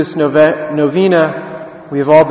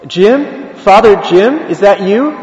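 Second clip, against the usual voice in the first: lightly acted, higher-pitched questioning; tentative recognition; 4 semitones higher, slower than usual. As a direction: call to an old friend you half recognise. Priest recognises old classmate.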